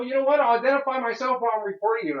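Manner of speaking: loud and high, daring him; retold defiant shout. Tenant retelling defying the guard, loud and high. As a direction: shout it back while raising the phone. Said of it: "I go".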